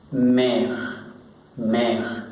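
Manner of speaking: mère with an open e like Spanish e; French mère. Shown as a demonstration. Teacher drills French mère for the class. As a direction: repeat mère slowly, clear open e. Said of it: "Se pronuncia la E como en el español".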